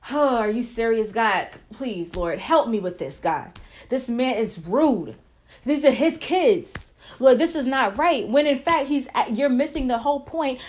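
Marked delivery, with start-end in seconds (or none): 0.1-8.3 complaining prayer. Retold or imitated. Wife griping to God about her husband, hammed-up indignation. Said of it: "you're just like".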